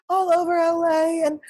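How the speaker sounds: high, slow self-satisfied mock; smug liberal imitation. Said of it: "she's getting her smug voice".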